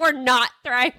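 "We're not thriving" said flat and matter-of-fact; deadpan it, undercutting the cheer; glum correction. Retold or imitated. Mom quoting her friend's answer on vacation, glum flat correction. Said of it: "you're like".

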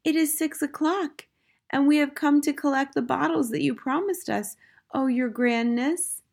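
put-on high, deferential old witch; meek voice. A narrator's reading. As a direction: petition a feared leader timidly. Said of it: "said a meek voice".

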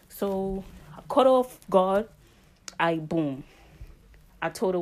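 storytelling in a thick New York street accent. Shown as a demonstration. Telling her New York story time in a New York accent. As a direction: lean into the New York slang and vowels. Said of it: "in my New York accent".

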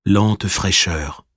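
slow, measured poem recital with long pauses; poem reading. Acted. Reader reciting the poem Sous la pluie, slow poem reading. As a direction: recite it unhurriedly, letting each line settle.

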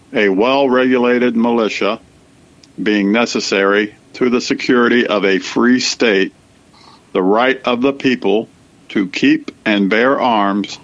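measured, deliberate reading aloud; formal reading. Real, not acted. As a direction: read it out formally, phrase by phrase with pauses. Reads the Second Amendment aloud.

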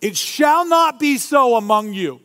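"not" pressed high and emphatic; the whole line lifted, with "not" hit; stress on "not". Shown as a demonstration. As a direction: lean hard on "not". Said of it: "The point".

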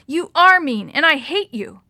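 loud, high, furious yell at her brother; angry yelling. A narrator's reading. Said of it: "Maria yelled".

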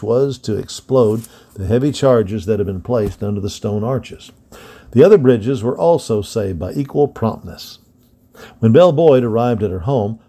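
put-on steady storyteller reading an old history book; story narration. A narrator's reading. To young listeners, reading a Civil War book in narration voice. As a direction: read it out like a bedtime history lesson.

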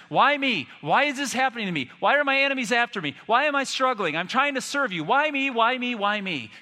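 high, fast, pleading complaint; crying out. Acted. Old Testament sufferers protest to God, crying out. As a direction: pile up the questions, high and urgent. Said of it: "Everyone's crying out in the Old Testament".

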